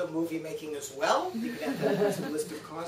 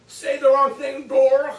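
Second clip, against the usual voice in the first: retold angry threat; 8 semitones higher, 12 dB louder, slower than usual.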